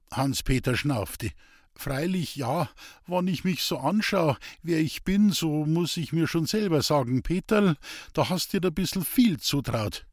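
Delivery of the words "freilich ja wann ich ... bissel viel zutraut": higher, eager dialect voice, defensive; earnest simple woodcutter. Acted. Hans-Peter defending his street preaching to the priest, higher and earnest. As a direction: plead your case like a rough honest man.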